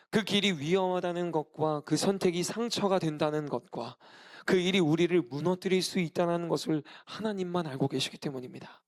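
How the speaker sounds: ordinary talk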